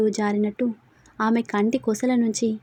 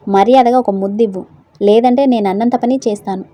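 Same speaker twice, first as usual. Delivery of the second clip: much louder mock command; playful threat; 10 dB louder than usual. A narrator's reading. Husband playfully demanding a kiss, loud mock threat. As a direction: boom out a teasing ultimatum.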